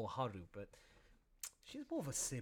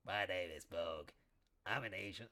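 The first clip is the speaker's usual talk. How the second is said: a bit lower, gruff little bear; lightly voiced bear character; 6 semitones lower than usual. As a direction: introduce yourself as a shy bear.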